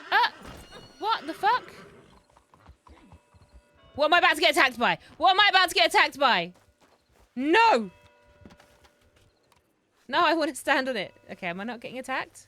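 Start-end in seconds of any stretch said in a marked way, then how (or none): 0.1-5.0 panicked. Real, not acted. Panicked after spooky attack. 5.2-6.5 panicked. Real, not acted. Panicked repeat, louder higher. 7.3-11.1 panicked shout. Real, not acted. Panicking about attack.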